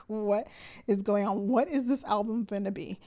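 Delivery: excited disbelief. Retold or imitated. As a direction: ask in happy disbelief. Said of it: "I was like".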